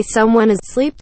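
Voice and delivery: ASLEEP said as slept; mispronounced asleep. Retold or imitated. Complaining about how people say it, ASLEEP garbled. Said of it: "When people say".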